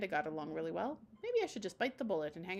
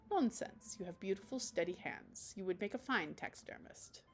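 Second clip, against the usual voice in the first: Damien's voice; 3 dB quieter than usual. Acted. Damien character voice.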